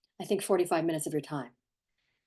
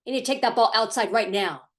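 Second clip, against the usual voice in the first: firm parent; 3 semitones higher, 5 dB louder than usual. Shown as a demonstration. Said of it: "in a firm voice".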